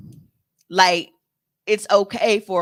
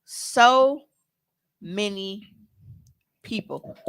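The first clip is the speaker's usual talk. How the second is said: speaking through hiccups; words broken by a hiccup; 3 semitones higher, much slower than usual. Real, not acted. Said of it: "Got the hiccups".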